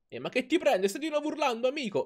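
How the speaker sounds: lightly voiced excited teammate; voicing a character. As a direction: read it as the cartoon teammate. Voicing game character's dialogue.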